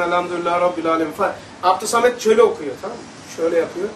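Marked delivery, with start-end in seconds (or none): 0.0-1.1 quick demo recital; quick recitation sample. Shown as a demonstration. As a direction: rattle off the verse quickly, lower. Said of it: "Mesela Kur'an okuyayım".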